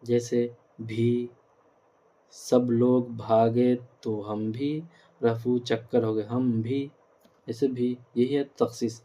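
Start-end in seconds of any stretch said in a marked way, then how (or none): 4.3-4.8 ہم بھی drawn out for emphasis; stress on ہم بھی. Shown as a demonstration. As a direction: lean slowly on ہم بھی. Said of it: "زور پیدا کر دیتے ہیں". (ہم بھی پر زور دے کر)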